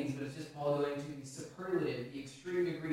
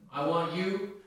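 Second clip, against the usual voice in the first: louder, punchy recruiting-poster call; Uncle Sam poster; 2 semitones higher, 6 dB louder, slower than usual. Retold or imitated. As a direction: point at them like the poster. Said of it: "that old Uncle Sam poster".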